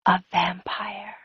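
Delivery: hushed, slow whisper. Acted. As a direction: breathe it like a confession.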